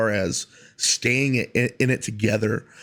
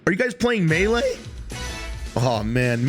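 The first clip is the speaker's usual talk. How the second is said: high, hyped bro intro; pumped-up party bro greeting; frat bro; 5 semitones higher than usual. Acted. Hyped podcast intro, bro energy.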